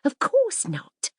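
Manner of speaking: high drawn-out scornful no; of course not, slow and superior; scoffing. Acted. Mirabel scoffing.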